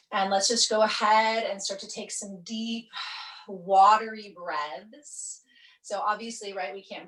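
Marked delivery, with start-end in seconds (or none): 0.1-5.4 unhurried meditation guide, pausing between phrases; guided relaxation. Acted. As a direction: draw out the last words to slow the breathing.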